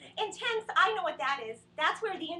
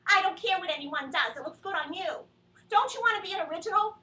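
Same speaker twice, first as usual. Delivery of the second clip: insistent mom; 7 dB louder than usual. Retold or imitated.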